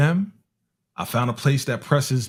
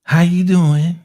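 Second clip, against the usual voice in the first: loud greeting; 5 semitones higher, 7 dB louder, slower than usual. Retold or imitated. Greeting a shirtless dancer, loud.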